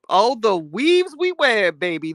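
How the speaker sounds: slow, drawn-out theatrical sigh over weaves; hammed-up dramatic lament; mock lament. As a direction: intone it like a tragic poem.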